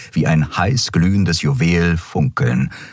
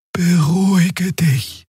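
put-on high, slow, soothing young female voice; calming; 13 semitones higher, much slower than usual. Xia calming her tense friend Kero, high and slow. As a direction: gently settle a tense friend, voice raised high.

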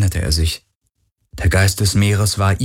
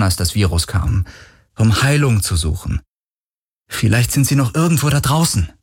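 eager hopeful; 4 semitones higher than usual. Acted. Galen pleads hopefully with spirit.

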